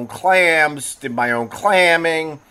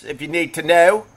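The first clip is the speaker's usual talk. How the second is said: slipping into Philly vowels; touch of Philadelphia accent; 3 semitones higher than usual. Real, not acted. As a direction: let a Philly "know" slip out. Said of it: "there's the Philly accent".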